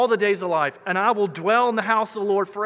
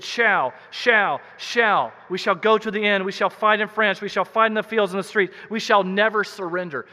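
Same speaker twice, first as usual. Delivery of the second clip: every "shall" hit hard and a bit louder, rolling on like a war speech; defiant wartime oratory; 3 dB louder than usual. Retold or imitated. Preacher quoting a wartime leader, with resolute defiant emphasis. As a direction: pound each "shall" like Churchill rallying a nation. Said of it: "we see that in the word shall".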